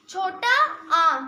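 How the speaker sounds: slow, deliberate answer; छोटा आ drawn out; slow repeat. Shown as a demonstration. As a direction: say छोटा आ slowly for the class. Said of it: "क्या होता है?".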